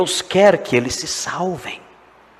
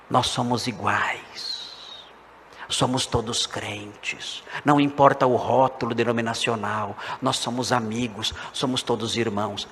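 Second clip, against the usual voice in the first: slow, soft, lower sugary voice mocking the Adventists; mock claim of unity; 3 semitones lower, 5 dB quieter, slower than usual. Pastor mocks Adventists' friendly pitch to the congregation, soft and slow. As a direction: mimic their sweet talk of brotherhood. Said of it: "E com isso dizer o quê?".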